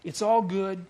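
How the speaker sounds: an easy shrug of a line; mocking a feel-good slogan; breezy mock reassurance. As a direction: toss it off like a bumper sticker. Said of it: "He'd say".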